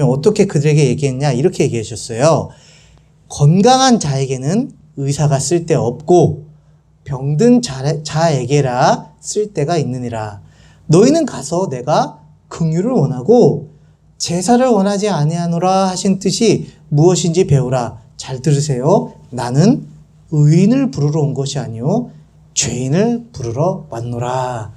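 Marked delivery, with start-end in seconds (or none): 3.3-18.0 measured, phrase-by-phrase Bible reading; scripture reading. Acted. Pastor reading Jesus's words to children, measured scripture reading. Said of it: "목사님이 읽어줄게요". 19.3-24.7 low, deliberate verse reading; scripture reading. Acted. Pastor reading Jesus's answer aloud, solemn scripture reading. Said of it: "목사님이 읽어줄게요".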